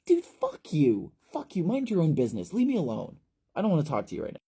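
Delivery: loud, high, raging yell; frayed kid yelling the creep away; furious shout. Acted. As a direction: scream at him to back off. Ephraim yelling Shelley away.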